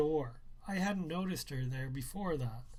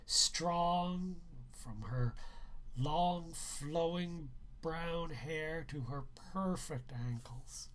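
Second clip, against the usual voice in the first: dreamy admiration; slower than usual. Acted. Narrator swoons over friend's mother.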